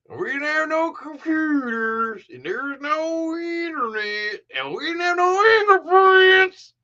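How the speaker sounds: very high, slow redneck drawl, loudest at the end; hammed-up redneck accent. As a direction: drag out each word like a redneck detective, high and building. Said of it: "he had the most redneck accent".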